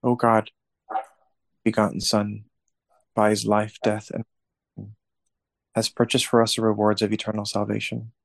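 steady reverent prayer voice; prayer recitation. Acted. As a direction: recite it like a rosary leader. Leads the closing prayer.

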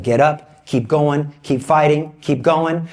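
like a coach pushing a tired athlete. Retold or imitated. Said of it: "God acts like a coach".

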